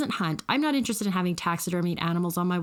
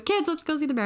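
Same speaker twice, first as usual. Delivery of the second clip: put-on higher, eager call to the kids; excited mom; 7 semitones higher than usual. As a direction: mom happily calling the kids over. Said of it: "So then she goes".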